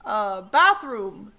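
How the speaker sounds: slow grunted bear word. Acted. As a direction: drag it out like a bear. Bear asks for bathroom.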